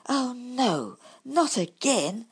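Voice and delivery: high, slow, alarmed badger cry; dismayed exclamation. A narrator's reading. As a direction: wail at the friend's fall. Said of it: "exclaimed Bumble".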